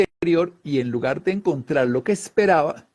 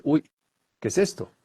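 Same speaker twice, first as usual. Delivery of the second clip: surprise; 2 semitones higher than usual. Retold or imitated. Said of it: "La sorpresa es una emoción que dice".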